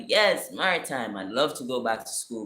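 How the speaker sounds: retold keen acceptance, settling as it goes; excited. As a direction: jump at the offer. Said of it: "I'm getting excited".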